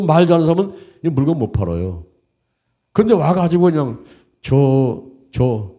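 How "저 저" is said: hesitant, halting salesman; low, faltering start; bumbling salesman. Acted. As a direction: act a tongue-tied seller fumbling to begin. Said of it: "조금 어눌하게 어리부리 해가지고".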